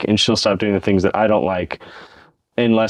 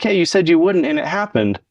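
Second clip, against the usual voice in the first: a still slightly raised but calm, even reminder; calm restatement; 6 semitones higher than usual. Pretend. Calmly reminding a partner of the slip, even tone. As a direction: state it gently, without blame. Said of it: "It's like".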